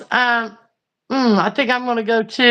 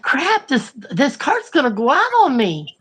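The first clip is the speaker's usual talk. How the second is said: higher exasperated grumble at the cart; frustrated; 4 semitones higher than usual. Retold or imitated. To herself about the stalling cart, higher exasperation. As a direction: fret that the cart is dying. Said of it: "And I'm like".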